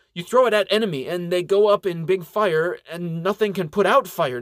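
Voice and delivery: put-on young elf in broken English, worked up; Zena, anxious elf girl. Zena explains why elf fire matters, anxious.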